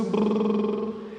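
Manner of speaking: slow brrrr like a toy car engine; rolled lip brrrr; lip trill. Shown as a demonstration. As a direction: buzz the lips like a kid's bike. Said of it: "can you all just go".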